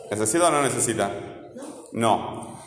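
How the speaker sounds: normal talking voice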